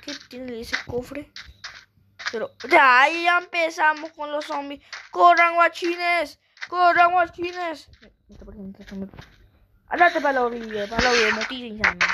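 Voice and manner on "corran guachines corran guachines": drawn-out urgent shout to run; urgent yelling. Real, not acted. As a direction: yell at them to run. Fleeing zombies in game.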